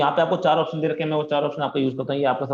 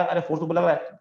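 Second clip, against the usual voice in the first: higher mock yell of the particle; mock shouting; 5 semitones higher than usual. Teacher voices the particle shouting about the force. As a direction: call out like a panicked particle. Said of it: "चिल्ला चिल्ला के".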